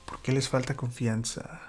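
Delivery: gentle kindness. Retold or imitated. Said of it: "Una manera adecuada de traducir el tono".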